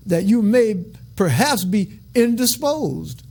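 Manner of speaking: slow, relishing "perhaps be indisposed"; savoring the phrase. Shown as a demonstration. Preacher relishing Enoch's old-fashioned wording, slow and savoring. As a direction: roll the fancy words out slowly, enjoying them. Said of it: "I like that way they say that".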